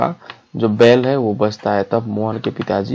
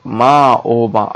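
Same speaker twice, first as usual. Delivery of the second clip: acted cry to mother, a touch raised; mildly louder cry; slower than usual. Mohan calling his mother, mildly louder cry. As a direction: call out for mother, half-hearted. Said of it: "जरा जोर से कहा कर".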